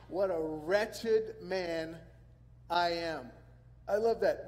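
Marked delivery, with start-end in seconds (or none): 0.1-3.3 wretched stretched slowly, loud and heavy; drawn-out wretched man. Acted. Preacher reading Paul to the congregation, slow heavy stress on wretched. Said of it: "Then he goes on".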